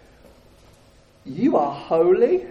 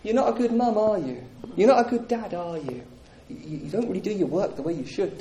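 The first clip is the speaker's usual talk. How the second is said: softer, quicker needling taunts; accusing enemy voice; 4 dB quieter, faster than usual. Acted. The enemy whispering accusations at a believer, softer and sneering. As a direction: insinuate each doubt with a sly little question. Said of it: "the enemy comes with his counterfeit voice".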